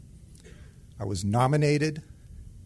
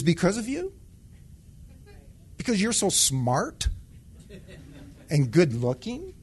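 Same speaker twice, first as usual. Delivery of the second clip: higher, mocking voice of God; God needling a proud man, pitched up high; 8 semitones higher, 3 dB louder than usual. God scolding the sergeant for thinking his success is his own, high and mocking.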